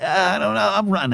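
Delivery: nervous squeak. Retold or imitated. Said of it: "And I'm like".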